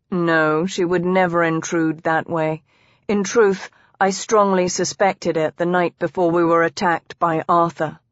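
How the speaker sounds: a hint of a calm, assured man; composed husband. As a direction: reassure her evenly, lightly in character. Husband's voice in story.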